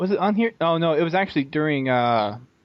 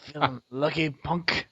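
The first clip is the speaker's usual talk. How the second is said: Dirty Harry impression; 6 dB quieter than usual. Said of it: "Same, same actor".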